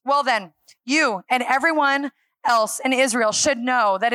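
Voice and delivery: mildly hammed-up bold testimony before judges; bold, courageous. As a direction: declare it firmly, as if on trial. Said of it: "they witnessed the bold, courageous".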